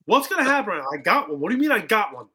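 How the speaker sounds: hammed-up worried asking; mock panic. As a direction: play up the rising panic. Nervous retold panic.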